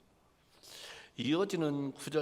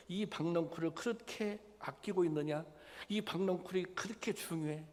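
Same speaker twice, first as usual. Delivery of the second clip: higher, pressing rebuke of a scolding God; God rebuking; 4 semitones higher than usual. Retold or imitated. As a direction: press Jonah with rising questions. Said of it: "하나님께서 요나를 책망하고 있는 것입니다". (요나를 책망하시는 하나님, 높아지며 다그치는 목소리)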